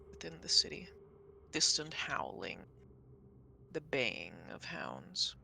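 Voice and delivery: slow, measured narration with long pauses; game master scene setting. Acted. GM describes distant hounds to players, scene setting. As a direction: narrate slowly, letting each phrase hang.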